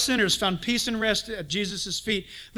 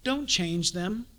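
prayer; 5 dB quieter, slower than usual. Shown as a demonstration. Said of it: "begin to pray this prayer".

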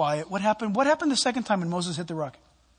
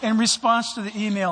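laughing while retelling the apology; can't stop chuckling mid-quote; breaking into laughter; laughing through; 4 semitones higher, 4 dB louder than usual. Real, not acted.

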